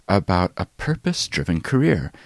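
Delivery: lively, emphatic host read with varied pitch; podcast intro read. Acted. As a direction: introduce the episode to listeners, punching key words.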